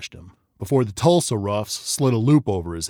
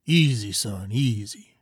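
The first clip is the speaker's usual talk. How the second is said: soothing; slower than usual. Acted. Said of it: "Doc soothed".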